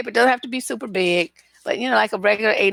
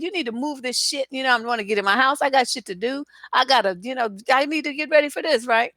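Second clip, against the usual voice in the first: retold cussing out; 4 semitones higher than usual. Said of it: "cussing his fucking ass out".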